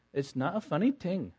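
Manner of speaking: put-on light child's Indian accent on funny. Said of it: "in her little Indian accent".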